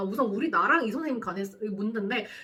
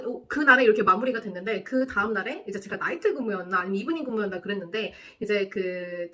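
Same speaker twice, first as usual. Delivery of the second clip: ordinary talk, nothing marked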